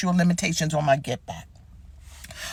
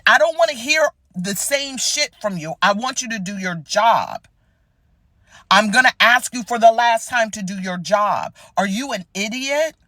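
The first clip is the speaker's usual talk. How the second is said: angry caller; 4 semitones higher than usual. Retold or imitated. Angry caller voiced in story.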